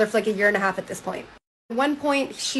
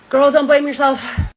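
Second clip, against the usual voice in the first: louder, slower reassurance with attitude; sassy aside; 5 semitones higher, 7 dB louder, slower than usual. Real, not acted. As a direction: talk straight to her like a knowing friend. Reacting to the book to viewers.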